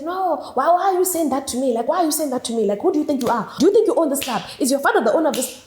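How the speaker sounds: imitating a man's rapid, affronted questions; getting mad. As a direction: act out his mounting annoyance. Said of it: "increasingly, increasingly mad".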